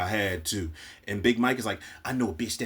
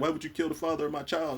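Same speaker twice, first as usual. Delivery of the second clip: mock weepy, tearful crying delivery, pitched up; 6 semitones higher than usual. Recapping a scene where a woman confronts Tiff, imitating her crying. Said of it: "She was just crying like".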